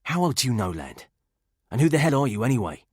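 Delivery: nervous man talking his way out; frightened English agent. Acted. Stokes voiced by narrator.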